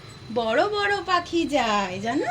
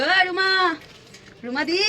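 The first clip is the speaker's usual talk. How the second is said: calling out demo; 3 semitones higher than usual. Shown as a demonstration. Mother showing her baby how to call Ruma di. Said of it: "বলো".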